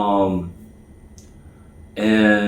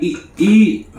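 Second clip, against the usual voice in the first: much higher, insistent voice pressing him to eat; urging friend; 10 semitones higher, 4 dB louder than usual. Retold or imitated. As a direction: push him to eat, pitched high.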